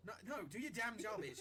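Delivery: slow irritated command; exasperated order. Acted. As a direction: shut the request down, fed up. Crew member refusing the request.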